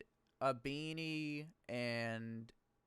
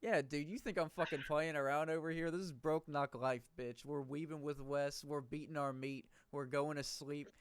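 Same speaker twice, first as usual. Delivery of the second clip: boastful hype rant, cursing in jest; mock cursing-out rant; 3 semitones higher than usual. Podcaster jokingly hyping the merch brand to the co-host, mock cursing-out rant. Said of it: "cursing people out now".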